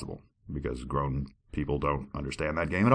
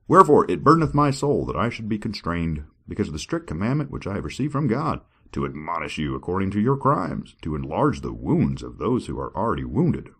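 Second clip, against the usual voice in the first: scripture reading; 2 semitones higher than usual. Acted. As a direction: declaim it like a preacher. Reads scripture dramatically.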